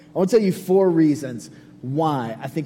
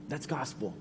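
"That's gospel" said again much softer, almost breathed; hushed repeat; 2 semitones lower, 14 dB quieter than usual. Acted. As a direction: let the words sink in, drop right down. Repeated sermon refrain, softer take.

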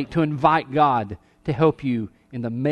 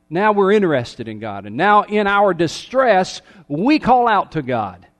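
higher, driving sermon delivery; impassioned preaching; 4 semitones higher, 5 dB louder than usual. Real, not acted. Preacher confessing to the congregation how we call out in distress, impassioned. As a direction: press the point with rising urgency.

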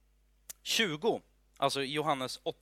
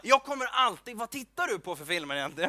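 higher voice, fast, mock-exasperated wife; mimicking Linda; 5 semitones higher, faster than usual. Linda complaining about his violent films, high mock voice. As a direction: play Linda complaining at his film choice. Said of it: "hon bara".

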